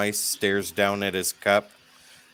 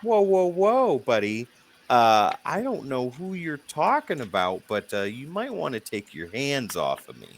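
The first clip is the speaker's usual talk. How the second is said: mock shocked raider; 5 semitones higher than usual. Drunk raider faking shock.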